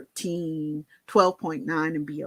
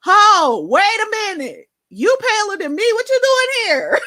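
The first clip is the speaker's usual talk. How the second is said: alarmed manager; 10 dB louder than usual. Retold or imitated. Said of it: "my manager had come out and she was like".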